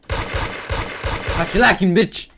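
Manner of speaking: slow taunt. Real, not acted. Sneaking up on player.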